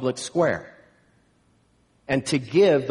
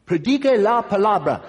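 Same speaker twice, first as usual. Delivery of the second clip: higher, raised greeting cry; excited call; 6 semitones higher, 4 dB louder than usual. Retold or imitated. Somebody running up to the preacher in the market, excited call. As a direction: call it out like a rallying slogan. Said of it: "run up to me and go".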